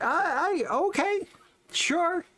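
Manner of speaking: high-pitched, hesitant mock agreement; dubious going along. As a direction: act out an unconvinced okay, voice pitched right up. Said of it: "it's just kinda like".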